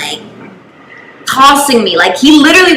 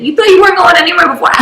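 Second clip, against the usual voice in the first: breaking into laughter; 9 semitones higher, much faster than usual. Real, not acted. Cracks up voicing dad's threat.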